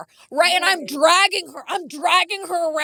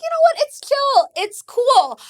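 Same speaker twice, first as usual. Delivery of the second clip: mock casual; 9 semitones higher, slower than usual. Mock-chill reply retold.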